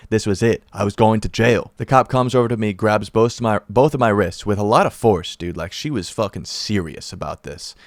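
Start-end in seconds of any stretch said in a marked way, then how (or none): none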